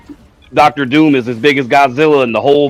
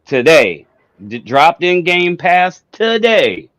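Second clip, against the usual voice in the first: drawn-out reveal, higher at the start; dramatic announcement; 3 semitones higher, much slower than usual. Pretend. Host teasing Cowboy with game news, dramatic announcement. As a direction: stretch it out like a big reveal.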